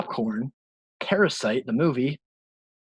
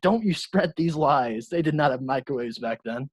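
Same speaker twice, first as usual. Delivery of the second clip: retold childish anger. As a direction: lightly act out a small child's angry protest. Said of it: "I was angry".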